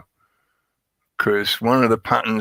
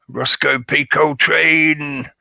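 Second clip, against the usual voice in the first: higher, lightly put-on Coltrane accent; Roscoe P. Coltrane accent; 6 semitones higher, slower than usual. Host greeting a viewer in the chat, in a mock Coltrane accent. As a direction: greet them in a playful Coltrane-style accent. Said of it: "say that with that accent".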